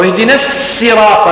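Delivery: long plain S in الصراط; sin instead of sad. Shown as a demonstration. Teacher offers the other reading, الصراط with sin. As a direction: say الصراط with a light, doubled sin. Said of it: "بالسين".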